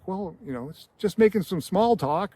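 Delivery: put-on flustered old man caught off guard; mildly startled small talk; startled, nervous. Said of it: "kind of startled".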